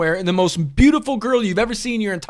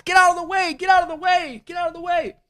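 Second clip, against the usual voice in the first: much higher, mock urgent squeal; playful shoo; 12 semitones higher than usual. Real, not acted. Host joking at a photo on screen, high mock squeal. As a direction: shoo someone out of the frame, high.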